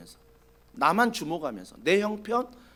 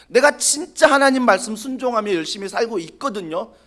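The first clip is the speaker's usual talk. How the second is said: proud, pushy self-praise, a bit louder; boastful Elijah; 3 dB louder than usual. Acted. Elijah boasting to God about his faith, proud and pushy. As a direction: brag about your own zeal to God.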